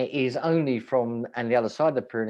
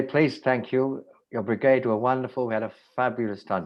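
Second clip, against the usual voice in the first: put-on Italian accent. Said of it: "this is an Italian accent".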